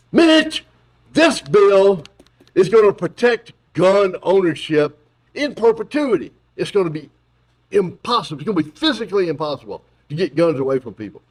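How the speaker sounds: high, eager mock Biden; mocking Biden tempting Mitch; Biden pitching to Mitch. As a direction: oversell gun protection. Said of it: "my equally stupid impersonation".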